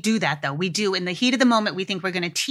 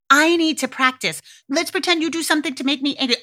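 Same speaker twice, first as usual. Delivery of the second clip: playful parent; 6 semitones higher, faster than usual. Shown as a demonstration. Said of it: "the parent, saying".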